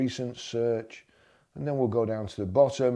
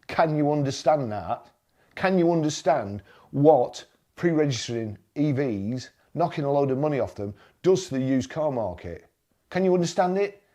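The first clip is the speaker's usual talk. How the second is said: louder, talking-down questions that keep rising; condescending; 3 semitones higher, 3 dB louder than usual. Real, not acted. Taunting the EV shills, loud condescending questions. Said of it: "that sounded condescending".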